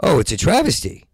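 lightly mocked barfly, high and loud; drunk at a bar. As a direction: sneer it like a know-it-all drunk at a bar. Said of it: "they always talk like that".

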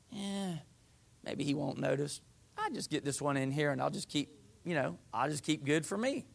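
soft, low talk to yourself; furtive. Acted. People hope God won't notice the poor offering, furtive. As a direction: slip it by under your voice.

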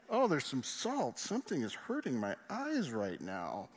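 slow, put-on casual excuse through held-back tears; a dad pretending nothing is wrong, slowly; mock-nonchalant cover for crying; dad hiding tears. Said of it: "so they can't see I'm crying".

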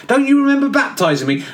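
high, laughing plea; high laughing exasperation; laughing disbelief. Acted. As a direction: laugh through the indignant question.

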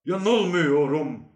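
loud, drawn-out insistence; slightly too loud. A narrator's reading. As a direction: insist slowly, voice rising a little too much. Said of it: "diye sesi az fazla çıktı".

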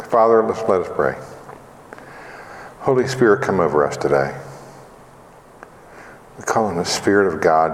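low, gently subdued prayer voice. Real, not acted. Leads an opening prayer.

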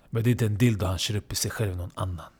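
ordinary delivery, nothing marked

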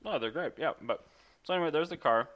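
talking while chewing; words around a mouthful; mouth full. Real, not acted. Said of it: "Sorry, I'm still eating".

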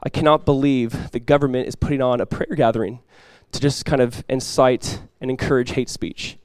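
restrained, grave imitation of an indignant speaker; retold heavy seriousness. Pastor retelling a rabbi's rebuke to Christians, understated heavy seriousness. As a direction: retell the accusation seriously, without raising the voice. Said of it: "really heavy and really serious".

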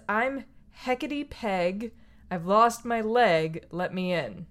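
witch voice. Retold or imitated. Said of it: "and the witch says".

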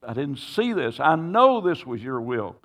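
desperate prayer, voice lifted high; pleading prayer. Retold or imitated. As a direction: cry out to the Lord in distress. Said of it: "I'm crying out to God".

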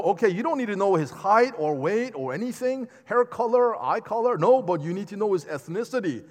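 emphatic paraphrase, voice lifted. Retold or imitated. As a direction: drive the point home, lively and insistent. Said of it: "The, the construction in that Greek is very emphatic".

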